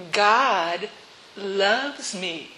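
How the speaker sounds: sarcastic. Retold or imitated. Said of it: "She read it very sarcastically".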